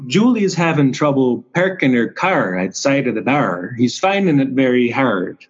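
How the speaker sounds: imitating a Maritimes TV host's accent. Host of Canada's Worst Driver mimicked in a Maritimes accent. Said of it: "the host is from somewhere in the Maritimes".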